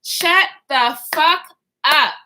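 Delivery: slow, word-by-word mock scream; retold scream. Reenacting screaming at everyone in the car, slow mock yell. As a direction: draw out each word, pause before the last. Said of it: "I'm screaming at the top of my lungs".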